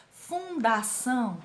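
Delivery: "Fundação" slowly split into fun, da, ção; syllable by syllable. Shown as a demonstration. Teacher showing three syllables, syllable by syllable. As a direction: say "Fundação" in three drawn-out beats. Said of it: "três sílabas".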